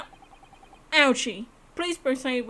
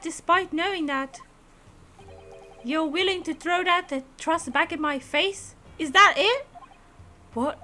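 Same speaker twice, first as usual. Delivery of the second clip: rousing, earnest lawyer voice; a stern mentor urging him on; 6 semitones higher than usual. Acted.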